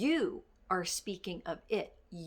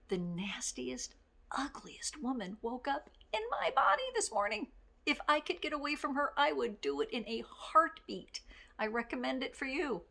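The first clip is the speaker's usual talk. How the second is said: higher, playful mock grumpy self-mockery; mock cranky confession; 5 semitones higher than usual. Boss tells her staff she's cranky, playfully higher. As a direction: ham up admitting you're cranky. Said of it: "I would admit right out loud".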